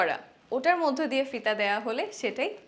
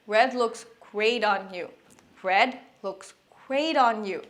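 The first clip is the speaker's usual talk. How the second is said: slow model sentence; 3 semitones lower, much slower than usual. Shown as a demonstration. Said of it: "তখন বলতে পারি".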